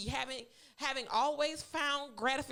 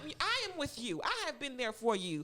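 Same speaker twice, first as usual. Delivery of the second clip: imitating a scolding mother; 4 semitones higher than usual. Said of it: "If I was her mother, I would have cussed her out".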